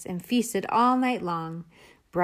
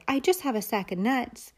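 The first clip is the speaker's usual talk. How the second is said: nervous squirrel; 5 semitones higher than usual. Acted. Squirrel speaks.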